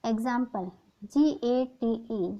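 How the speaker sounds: slow letter-by-letter spelling; teacher spelling a word slowly; spelled out slowly. Shown as a demonstration. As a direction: spell it out clearly for students. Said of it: "मैं आपको यहाँ पे example के रूप में बताती हूँ".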